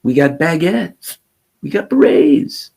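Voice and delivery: mocking a French patriot, slow and high; mock French person. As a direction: lampoon a Frenchman proud of his culture. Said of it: "every French person who says".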